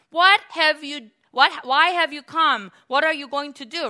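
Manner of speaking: high, loud challenge; crying out. Acted. Spirit inside the man challenging Jesus, crying out. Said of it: "starts to cry out".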